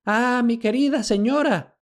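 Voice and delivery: high, giddy babble; old servant gushing with joy; lightly voiced old man babbling; babbling old slave. A narrator's reading. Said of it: "balbuceó".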